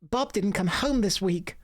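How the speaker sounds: very high, squeaky wise woman; a shrill mystical hermit greeting; Hild voice. Acted. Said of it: "I'm also voicing every character".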